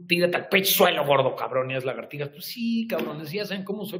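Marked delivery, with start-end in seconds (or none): 0.1-2.3 louder drill-sergeant command; mock drill order. Telling a struggling viewer to drop, mock order. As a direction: bark it like a coach. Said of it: "lo primero que digo es".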